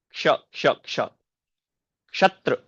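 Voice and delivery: क्ष said as "क्श"; क्ष with k plus sh; correct pronunciation. Shown as a demonstration. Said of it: "क्ष है". ("क्ष" को आधा क और श मिलाकर बोलना)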